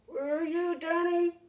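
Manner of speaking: a father calling to his son. Acted. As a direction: call back to the boy. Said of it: "my father called out".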